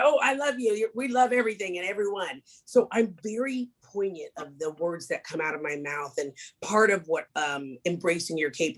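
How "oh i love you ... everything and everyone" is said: careless gushing. Retold or imitated. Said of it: "we throw it around like it's candy".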